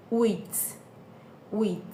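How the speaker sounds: "wheat" said with no h; silent h. Shown as a demonstration. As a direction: drop the h in "wheat". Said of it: "the silent H".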